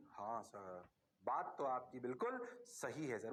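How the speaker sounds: low, soft mock student answer; student reply. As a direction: play a meek student saying yes sir. Teacher voices agreeing students.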